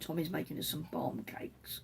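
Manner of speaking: whispered, half under the breath; whispered aside. Real, not acted. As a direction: drop to a whisper for a quick aside. Aside about husband in kitchen.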